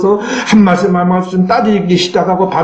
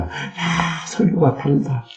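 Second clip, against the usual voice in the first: soft delighted murmur; 5 dB quieter, slower than usual. Pretend. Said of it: "이 체험하시기 바랍니다".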